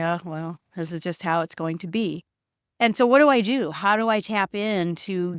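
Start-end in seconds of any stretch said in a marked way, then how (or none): 0.0-2.2 resigned. Acted. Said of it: "And then resignation".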